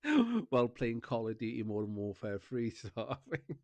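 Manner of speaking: chuckling as the story rolls; amused retelling, laughing between words; laughing while telling. Real, not acted. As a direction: talk through giggles.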